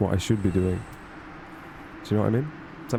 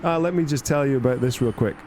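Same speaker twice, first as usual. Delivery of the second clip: a lightly voiced know-it-all assistant, higher; confident chatbot; 5 semitones higher than usual. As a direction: mimic a breezy, overconfident helper. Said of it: "it's like".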